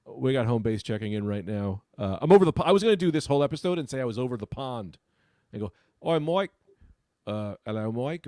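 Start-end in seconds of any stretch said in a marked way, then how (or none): 6.0-8.2 put-on English accent. Comic trying out a greeting from over the pond, English accent. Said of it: "This is English Gregory".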